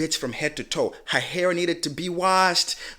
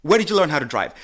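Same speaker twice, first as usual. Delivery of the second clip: raised scolding retort; telling him off; 3 semitones higher, 4 dB louder than usual. Retold or imitated. Scolding the man about his parking, raised retort. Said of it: "It's like".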